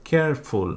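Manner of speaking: কেয়ারফুল split into two separate beats; broken into syllables. Shown as a demonstration. Teacher counting syllables for students, কেয়ারফুল broken into two beats. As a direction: say কেয়ারফুল in two distinct parts. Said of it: "দুইবারে".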